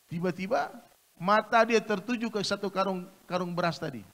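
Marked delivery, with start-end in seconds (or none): none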